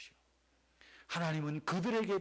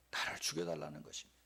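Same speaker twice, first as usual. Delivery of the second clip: low fast repeat; 13 semitones lower, 6 dB quieter, faster than usual. Shown as a demonstration.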